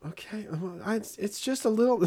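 put-on small, high, soft child voice; hushed, high-pitched pleading; meek kid excuse. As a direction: imitate a kid bargaining quietly. Daughter's meek excuse, acted.

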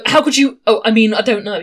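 lightly hammed-up shifty guard; shifty suspect. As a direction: stammer guiltily like a bad liar. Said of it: "He's very, very suspicious".

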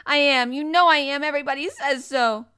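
very loud, high-pitched insistence; furious cry. A narrator's reading. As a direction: yell it in an indignant tantrum. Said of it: "he cried".

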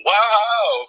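high excited toy dog cheer; Slinky Dog voice. Retold or imitated. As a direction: squeal it like a cartoon dog. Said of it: "Slinky Dog will go by and go".

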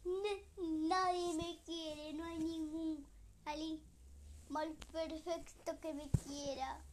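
slow, mildly tearful lament; sadly slow, as if near tears. Acted. Lonely witch laments nobody loves her, slow and sad. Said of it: "muy triste".

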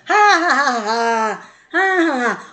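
deliberate hearty ha ha; forced laughter. Shown as a demonstration. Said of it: "treino do riso".

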